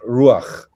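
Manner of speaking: "ruach" slow, with a strong U and short A; stress on the U. Shown as a demonstration. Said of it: "The accent is on the U".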